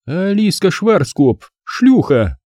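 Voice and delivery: high, mocking woman's voice; scornful blonde vixen jeering; sarcastic female voice. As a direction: sneer it down from above. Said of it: "проинформировал голос сверху".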